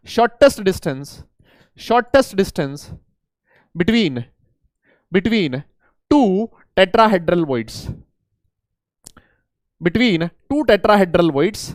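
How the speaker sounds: very slow, each word spaced for the class; slow emphasis. Shown as a demonstration. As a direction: spell it out word by word, slowly. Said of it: "teacher repeats definition slowly". (बहुत धीरे, हर शब्द पर ज़ोर देकर)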